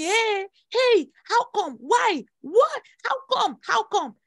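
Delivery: high, loud outraged calls; mock crowd shouting. People shouting at her elevation, high and loud. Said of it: "people were shouting".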